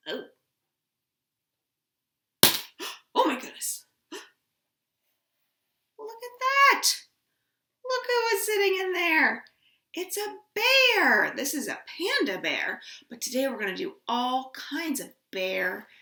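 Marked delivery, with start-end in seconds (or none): 0.1-11.3 hammed-up high, loud gasp of wonder; mock surprise. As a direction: act amazed for the kids. Teacher opens box, feigns surprise.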